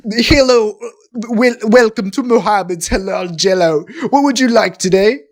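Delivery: badly faked Arabic accent; attempted Arabic accent. Shopkeeper welcoming a customer to the Jell-O shop, in a shaky attempt at an Arabic accent. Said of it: "I can't do, like, a fucking Arabic accent".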